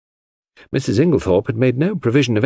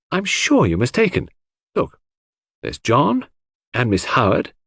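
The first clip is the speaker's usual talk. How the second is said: higher, insistent reassurance; earnest; 4 semitones higher than usual. A narrator's reading. Hastings earnestly telling Cynthia who likes her. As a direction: reassure her eagerly, counting off her friends. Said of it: "I said earnestly".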